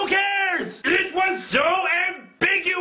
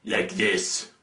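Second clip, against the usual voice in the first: very serious Rorschach; 4 dB quieter than usual. Acted. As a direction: drop deep into a grave imitation. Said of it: "Very serious".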